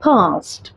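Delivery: फर्स्ट with the R silent, long ah vowel; non-rhotic first; British pronunciation. Shown as a demonstration. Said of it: "हम आर को अ pronounce करते हैं".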